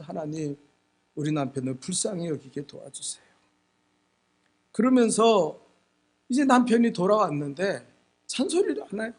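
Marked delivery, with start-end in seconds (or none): 0.0-3.2 low, soft plea to God; hushed retold prayer. Wife praying to God for her husband, hushed retold prayer. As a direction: pray it quietly, lightly acted. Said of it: "그 기도하면서".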